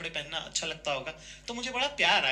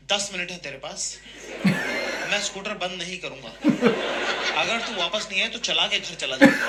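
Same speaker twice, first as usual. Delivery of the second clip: slow, measured imitation of a stern father; stern ultimatum; 4 dB louder than usual. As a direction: lay down terms, building louder at the end. Father gives mother a shopping ultimatum. (सख़्त पिता की चेतावनी की नकल)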